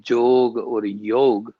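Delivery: jog or yog, one syllable, no final a; proper pronunciation. Shown as a demonstration. Interviewee giving the practice's proper name, jog or yog pronounced natively. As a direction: say yog with a long o, ending on g. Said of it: "if you can't even call it".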